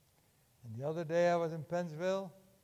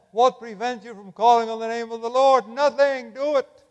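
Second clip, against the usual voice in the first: rising challenge; 6 semitones higher, 10 dB louder than usual. Retold or imitated. Preacher challenges listener to convert.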